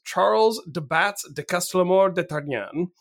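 French-accented name, said by an English speaker; tentative French accent; attempted French pronunciation. Shown as a demonstration. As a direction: have a careful go at the French name. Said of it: "I am going to try".

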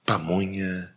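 airport announcer voice selling pamonha; Iris Letielli airport announcement. Retold or imitated. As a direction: announce it like an airport PA, lightly imitated. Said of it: "era ela falando".

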